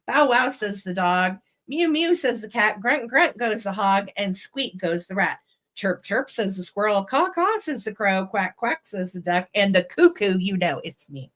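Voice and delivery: lilting read-aloud with animal calls lifted; nursery rhyme reading. A narrator's reading. Seller reads animal rhyme to viewers, nursery rhyme reading. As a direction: read it like a children's rhyme, bouncing on the beat.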